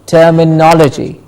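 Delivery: "terminology" as ter-mi-NOL-uh-jee; stress before -logy. Shown as a demonstration. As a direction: model "terminology" with weight on "no". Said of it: "Please say it with me".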